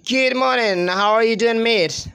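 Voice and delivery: imitation British English morning greeting. Shown as a demonstration. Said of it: "British English people say".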